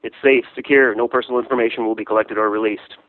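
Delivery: loud, punchy roll call and plug; loud mock public-service appeal; calling out names. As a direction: call absent friends out like an announcer. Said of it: "just gonna call them out by name".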